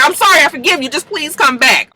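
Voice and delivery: high-pitched mock pleading. Laura begging Connor to come back, pleading.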